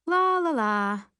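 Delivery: loud, high groan falling away; drawn-out exasperated groan. A narrator's reading. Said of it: "River groans".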